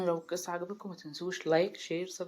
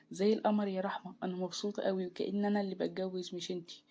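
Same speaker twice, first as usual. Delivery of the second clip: lightly raised, delighted voice; happy. Acted. Best friend admires the bride on her wedding day, mild joy. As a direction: gush gently over the bride. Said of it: "قالت لي بفرحة".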